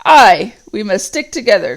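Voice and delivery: loud Ugluk growl. Acted. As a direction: growl agreement, heavy and flat. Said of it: "growled Ugluk".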